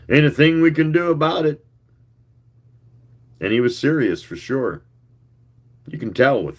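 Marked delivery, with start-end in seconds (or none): 0.1-1.6 raised, higher call across the bar. A narrator's reading. Fast Eddie calling out to the bar, raised. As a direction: sing it out to the room. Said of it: "Fast Eddie sang out".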